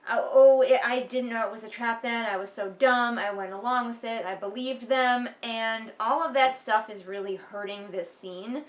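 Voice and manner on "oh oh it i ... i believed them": loud, overdone self-pitying wail; mock whiny narrator. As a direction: ham up the hero's regret, loud. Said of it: "coming at us with things like".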